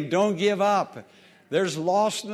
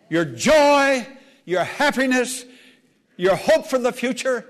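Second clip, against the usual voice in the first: higher, insistent list; urgent preaching; fervent warning; 4 semitones higher than usual. Real, not acted. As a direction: hit each loss separately with fervor. Preacher lists what will be lost.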